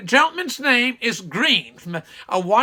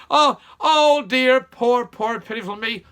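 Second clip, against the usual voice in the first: mock self-pity. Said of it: "It's song".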